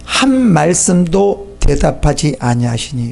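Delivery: slow, measured Bible recitation; scripture reading. Acted. Preacher reading the verse to the congregation, slow and solemn. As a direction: read the verse slowly and solemnly.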